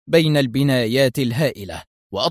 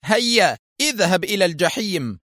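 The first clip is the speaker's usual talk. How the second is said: aggressive shout; 5 semitones higher than usual. Acted. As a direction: yell it while opening fire. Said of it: "وهتف".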